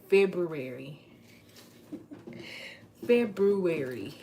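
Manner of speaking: February said loud with the r. Shown as a demonstration. Demoing the correct form, loud. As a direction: say February fully and loudly. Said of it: "That's the correct pronunciation".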